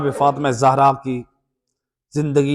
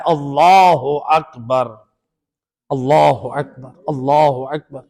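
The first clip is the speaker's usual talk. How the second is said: اللہ اکبر said slowly, every syllable clear as "Allahu Akbar"; reverent, unhurried tasbih; slow, careful recitation; 2 semitones lower, slower than usual. Shown as a demonstration. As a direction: draw out اللہ اکبر with each word separate. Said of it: "تسبیح جناب زہرا ہے".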